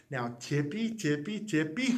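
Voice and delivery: whispering like sneaking bunnies; hushed sneaking. A narrator's reading. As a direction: tiptoe the words in a hush.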